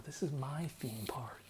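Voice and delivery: soft breathy whisper; whispered lyric. Retold or imitated. Quoting a rapper, dropping to a whisper.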